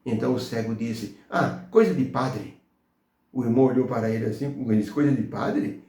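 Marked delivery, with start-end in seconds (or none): 1.3-2.6 slow, offhand brush-off with a falling end; mock dismissive. Blind man dismissing the church to a member, scornfully offhand. 4.9-5.8 questioning repeat, rising at the end; incredulous echo. Retold or imitated. Church member echoing the blind man's remark, taken aback.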